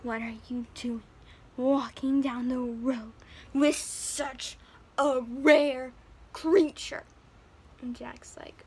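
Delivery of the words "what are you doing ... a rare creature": slow, swelling to loud amazement; amazed exclamation. Retold or imitated. Stranger astonished Jack walks a rare cow, building loud. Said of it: "And the guy's like".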